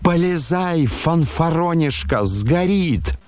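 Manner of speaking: high, urgent bellow; roaring. A narrator's reading. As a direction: bellow to goad him into the fire. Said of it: "заревел Фердыщенко".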